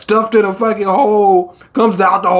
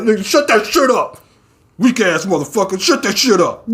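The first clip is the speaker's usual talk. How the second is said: mock angry scolding; 4 semitones higher than usual. Sweet Mask telling him off.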